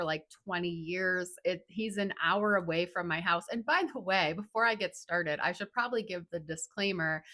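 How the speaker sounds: slight lisp from a numb tongue; tongue forward voice. Real, not acted. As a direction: talk with half the tongue numb. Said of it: "I have a little bit of a lisp".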